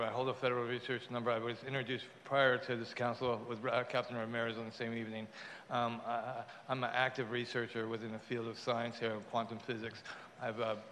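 speaking through mouth stitches; words slurred by fresh stitches; talking with stitches. Real, not acted. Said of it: "I got stitches in my mouth".

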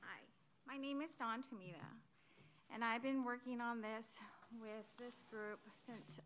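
ordinary talk

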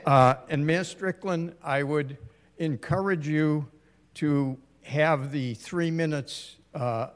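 native Boston accent, everyday talk; just talk in your real Boston accent. Real, not acted. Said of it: "despite my, uh, Boston accent".

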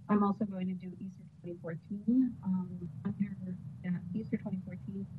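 soft, fading audio; bad connection. Real, not acted. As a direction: voice drifting away from the mic. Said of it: "you get soft in and out".

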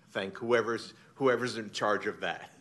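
laughing. Real, not acted. Laughing thanks at awards.

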